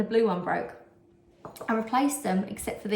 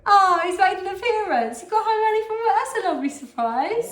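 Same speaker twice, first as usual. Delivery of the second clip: high, loud, excited welcome; thrilled to have her partner home early; delighted greeting; 10 semitones higher, 5 dB louder than usual. Real, not acted. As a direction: gush over his early arrival.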